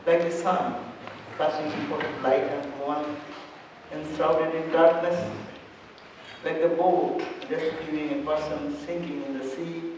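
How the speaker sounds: measured invocation in short phrases; prayer recitation. Acted. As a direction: recite a solemn prayer, pausing between phrases.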